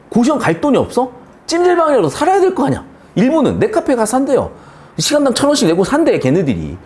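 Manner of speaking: high-pitched, indignant insisting; exasperated rant. Acted. Lecturer arguing that you must survive somehow, exasperated. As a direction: argue it exasperatedly, voice pushed high.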